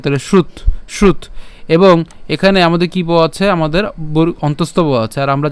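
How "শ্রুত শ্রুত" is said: শ্রুত closed on t as "shrut"; partial-word demonstration. Shown as a demonstration. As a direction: stop শ্রুত short at the t. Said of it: "ত যদি উচ্চারণ করে". (শ্রুত, শেষে ত আটকে)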